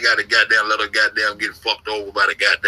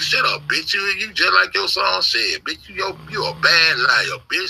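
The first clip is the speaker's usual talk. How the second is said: mocking taunt; 6 semitones higher than usual. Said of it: "you remember that shit, Keith?".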